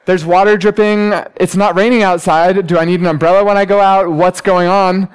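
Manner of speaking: playfully flustered retold questions; mock confusion. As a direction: act out baffled guessing. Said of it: "I'm like".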